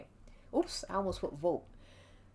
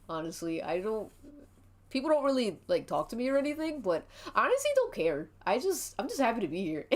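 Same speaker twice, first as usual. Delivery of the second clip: a hint of a raised, rushed, eager dude voice; Richie voice; 3 semitones higher than usual. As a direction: rattle it off quickly like an eager, awkward wrestler. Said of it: "Every time I do that guy's voice".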